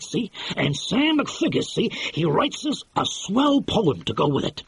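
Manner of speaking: lightly voiced excitable producer; brash film producer. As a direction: sell it like a fast-talking movie boss. Aronson's excited film pitch.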